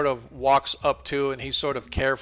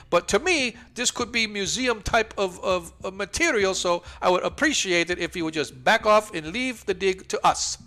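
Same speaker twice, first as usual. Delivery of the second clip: indignant scholar NPC; 7 semitones higher, 6 dB louder than usual. Acted. NPC lecturing about the altar.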